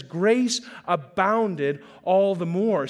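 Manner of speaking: slow, swelling preacher's emphasis. Shown as a demonstration. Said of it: "slow emphatic repeat of verse".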